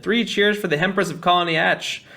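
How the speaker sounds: high, mildly mocking hurrah; mock cheering. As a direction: lead a sarcastic cheer from the crowd. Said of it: "only been making fun of her".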